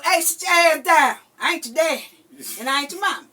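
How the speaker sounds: loud, high scolding of the grandgirls. Retold or imitated. Grandma scolding the grandkids, loud and high. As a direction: bark it out like a strict grandma. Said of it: "Know how I do".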